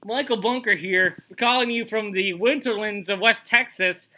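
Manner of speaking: slow, lightly voiced cowboy drawl; Michael Bunker, slow and a bit high; Michael Bunker impression. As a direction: put on a slow Texan rancher voice. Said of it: "Why is your voice so high?".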